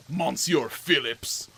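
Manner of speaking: slow, drawn-out mock French "Monsieur"; mock French accent. Player greeting a game witness in fake French, drawn out slowly. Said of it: "Probably not French at all".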